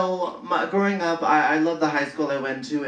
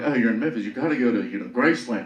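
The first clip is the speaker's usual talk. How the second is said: Southern drawl; 4 semitones lower, much faster than usual. Retold or imitated. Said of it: "He was like".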